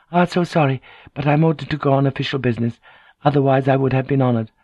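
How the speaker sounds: lightly voiced formal regret; courteous lady. Lady declining Kyoko for official business, brisk courtesy.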